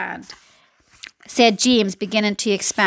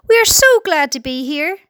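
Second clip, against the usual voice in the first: mild call, pitched higher; 4 semitones higher than usual. A narrator's reading. James to the men below, calling out. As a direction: call down to them in a raised pitch. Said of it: "James called out".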